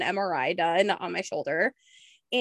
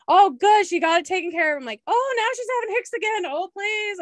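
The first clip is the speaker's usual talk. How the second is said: anxious relief; 10 semitones higher, 3 dB louder than usual. Retold or imitated. Following friend's updates anxiously.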